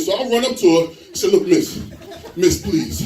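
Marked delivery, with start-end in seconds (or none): 1.3-3.0 acted winded plea; big man puffing after someone; out of breath. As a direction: plead while catching your breath. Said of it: "I was out of breath".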